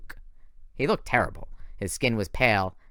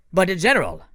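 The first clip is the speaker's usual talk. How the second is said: pleading protest; 8 semitones higher, 7 dB louder than usual. Acted. Thorne pleads.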